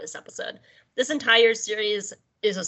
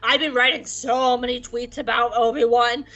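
mock whiny Vader. Vader ranting to Palpatine about Obi-Wan, mock whine. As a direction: rant like a sulky teen. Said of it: "Vader's just like".

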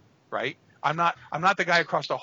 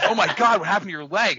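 loud, high mock alarm; the doctor gasping at the leg; doctor startled by the bloody-looking leg, loud alarmed cry; shocked doctor; 6 semitones higher, 9 dB louder than usual. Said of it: "And he goes".

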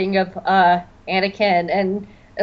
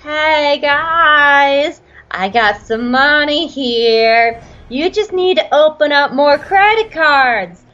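loud, eager con-man pitch; scheming Lott Dod; 4 semitones higher, 4 dB louder than usual. Retold or imitated. Lott Dod pushing credit cards on the Senate, loud sales pitch. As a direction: sell it like a sleazy moneylender. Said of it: "Lott Zod is over in the corner like".

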